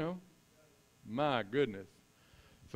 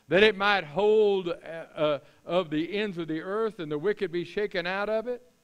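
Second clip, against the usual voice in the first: high, slow, forceful challenge; Lord's voice; 5 semitones higher, 5 dB louder than usual. Acted. God challenging Job by name, high and commanding. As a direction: press the question as the Almighty. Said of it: "in the Lord's voice here".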